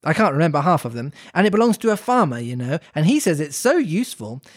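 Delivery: measured storybook read-aloud; story narration. A narrator's reading. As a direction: read it aloud like a children's classic.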